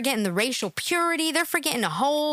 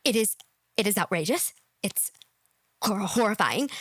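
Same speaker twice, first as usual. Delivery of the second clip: mocking imitation; 5 semitones lower than usual. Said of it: "let me just think now".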